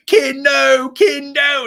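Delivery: high, loud, pleading shout; mock drunken yell. Drunk DJ yelling at Ken to stop, loud high shout.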